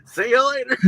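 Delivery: high laughing shout of the line; giggling shouted farewell; laughing movie quote. Retold or imitated. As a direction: echo it, laughing hard. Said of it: "you pulled the Dumb and Dumber".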